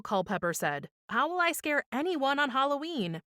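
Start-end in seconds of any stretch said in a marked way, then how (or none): 1.1-3.2 high, plaintive question; mildly anxious little ghost, pitched up; worried little ghost. A narrator's reading. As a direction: ask it fretfully in a high voice. Little ghost frets about Halloween.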